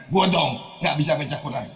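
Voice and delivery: mock boastful brag; proud boasting. Preacher mimics a man proud he can't read Quran, boasting. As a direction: imitate someone showing off, lightly. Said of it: "Malah dia bangga".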